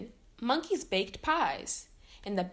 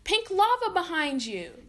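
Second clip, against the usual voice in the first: warning; 7 semitones higher, 4 dB louder than usual. A narrator's reading. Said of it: "warned Phineas".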